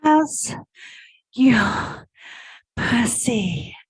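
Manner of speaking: drawn-out, airy mock of a gushing coach; mocking spiritual coach. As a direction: parody the syrupy spiritual coach voice, slowly. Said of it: "'cause all the women talk like this".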